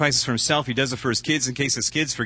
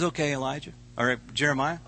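gracious; 5 dB quieter than usual. Acted. God answers graciously.

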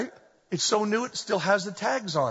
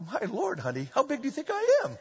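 laughing, quick and softer; half-laughing at the wife's choice; laughing disbelief; 5 semitones higher, 4 dB quieter than usual. Retold or imitated. Husband to wife about vest size, laughing. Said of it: "I go".

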